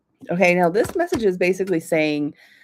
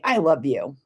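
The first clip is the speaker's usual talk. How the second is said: "I love you" said coldly, with a harsh edge; 4 semitones lower than usual. Shown as a demonstration. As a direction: throw "I love you" out curtly, not kindly. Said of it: "that's not a nice tone".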